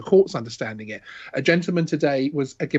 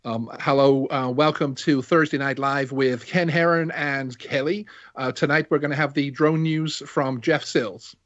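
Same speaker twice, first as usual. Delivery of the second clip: put-on American accent, slow newscaster read; a hammed-up American host voice. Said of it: "Ah, that's so offensive".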